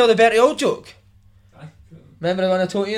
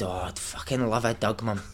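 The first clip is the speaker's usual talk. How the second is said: put-on child Bertie voice; 9 semitones lower, 12 dB quieter than usual. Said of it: "And he said".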